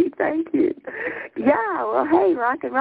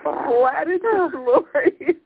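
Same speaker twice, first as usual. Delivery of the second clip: laughing to tears; 4 semitones higher, much slower than usual. Real, not acted. Laughing until crying over title.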